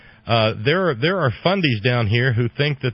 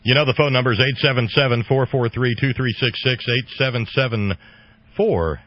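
rattled off fast; faster than usual. Real, not acted. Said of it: "I'm not an auctioneer".

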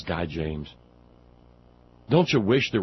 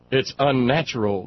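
mock right-wing voice; 3 semitones higher, 4 dB louder than usual. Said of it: "they say".

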